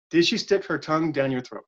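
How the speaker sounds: flat line reading with no inflection; even, uninflected quote; monotone read. Shown as a demonstration. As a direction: read it deadpan so nobody can tell who said it. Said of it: "I'm not gonna read it any kind of inflection".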